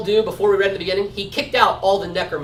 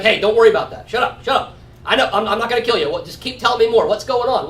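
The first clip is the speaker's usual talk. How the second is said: higher, hurried mock hushing; imitated brusque reassurance; 5 semitones higher, 4 dB louder than usual. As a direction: brush off the fear impatiently. Acting out Saul hushing the woman.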